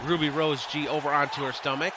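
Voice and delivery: lively ringside commentary, calling each move; energetic live commentary of a wrestling match; play-by-play. Acted. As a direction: call the match like a wrestling announcer. Streamer calls wrestling match play-by-play.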